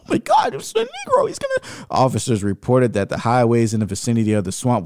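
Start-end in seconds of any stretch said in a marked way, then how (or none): 0.0-1.9 gasping, high and horrified; shocked gasp. Acted. Reacting to the lynching book, shocked gasp. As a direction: recoil in disbelief, voice shooting up.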